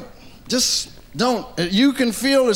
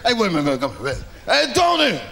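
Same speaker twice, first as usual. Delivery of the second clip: laughing mafia boss; 2 semitones higher than usual. Retold or imitated.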